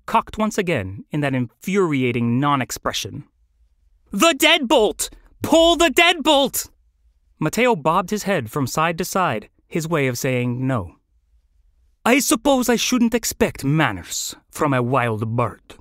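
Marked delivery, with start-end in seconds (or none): 4.1-6.7 high, urgent shout; desperate to be freed, voice way up; frantic urging. Acted. Caged bird urging flamingo on. 12.0-15.8 affronted flamingo, put-on voice; haughty put-on character voice.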